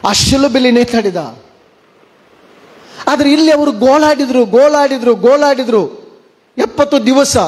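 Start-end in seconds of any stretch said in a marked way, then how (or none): 3.1-7.4 rising preaching emphasis. Acted. Preacher builds repetition.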